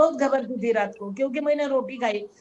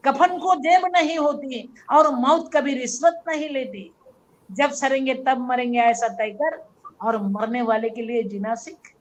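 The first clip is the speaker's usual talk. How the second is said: inner voice urging. Retold or imitated. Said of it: "मेरा दिल मेरे को बोल रहा था".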